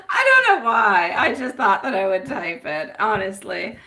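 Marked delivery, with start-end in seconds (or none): 0.1-1.1 words spoken through laughter, louder; laughing. Real, not acted. Psychic laughing as she admits the typo to viewers. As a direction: laugh while owning up.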